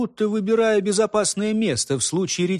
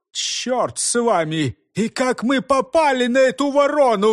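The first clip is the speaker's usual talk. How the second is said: higher, agitated pleading; flustered excuses; 7 semitones higher than usual. A narrator's reading. Constables explaining the escape to the head, flustered. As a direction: babble the excuse all at once.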